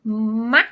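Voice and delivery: "Mac." said loud and clear; word demo. Shown as a demonstration. Teacher presenting a new word, loud and clear. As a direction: model "Mac." for students to copy. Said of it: "and then we have".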